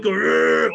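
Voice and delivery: mock strained groan; hammed-up effortful groan; straining grunt. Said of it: "sounds like he's taking a dump".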